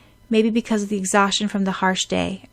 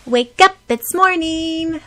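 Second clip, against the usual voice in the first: loud high wake-up call; 9 semitones higher, 6 dB louder, slower than usual. A narrator's reading. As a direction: shout to rouse a sleeper. Calling someone awake.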